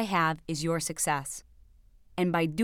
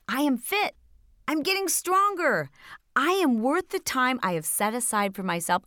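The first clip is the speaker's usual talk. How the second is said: positive inner voice; 3 semitones higher than usual. Acted. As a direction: voice the encouraging inner voice with rising conviction. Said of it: "that little voice to say to you".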